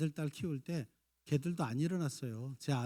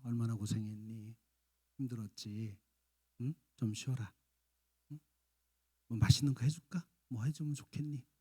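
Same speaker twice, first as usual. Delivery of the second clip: tender comfort; 3 semitones lower than usual. Retold or imitated. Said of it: "그럴 땐 안아주세요".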